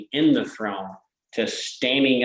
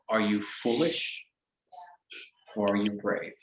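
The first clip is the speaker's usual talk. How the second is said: wet raspy creature voice; 5 dB quieter than usual. Acted. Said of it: "a very wet sounding, um, raspy voice".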